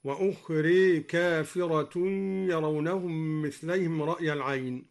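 وأخري ending in "ee" for ukhraa; imala. Shown as a demonstration. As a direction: tilt the final vowel of وأخري toward e. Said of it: "وكذا أمال".

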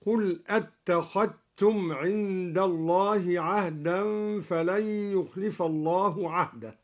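أتخذتم said attakhattum, dh assimilated into t; dhal merged into ta. Shown as a demonstration. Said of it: "أدغم الدوري الذال في التاء". (إدغام الذال في التاء)

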